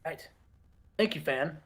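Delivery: a hint of a brooding wrestler cutting a low-key promo; Dean Malenko promo. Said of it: "And Dean's like".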